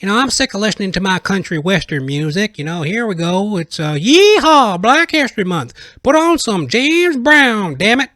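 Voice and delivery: high, loud hammed-up country guy; dorky white guy. Dorky white fans celebrating Black History Month, hammed-up excited voice. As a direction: whoop it up like an excited dorky cowboy. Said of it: "they go".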